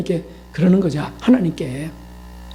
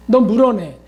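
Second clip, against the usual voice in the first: mock scolding; 3 semitones higher than usual. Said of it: "막 야단치고 그냥".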